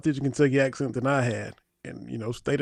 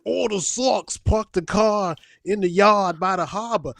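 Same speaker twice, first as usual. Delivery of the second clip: lightly put-on Boston accent; mock Boston accent; 5 semitones higher, 3 dB louder than usual. Kentucky guy mocking Boston talk, light Boston accent. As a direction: tease a Boston accent, half-hearted. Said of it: "I didn't go up there saying".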